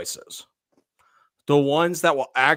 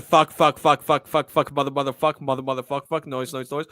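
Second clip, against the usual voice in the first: mock shouting. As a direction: shout the curses then trail off. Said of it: "where he and I just said".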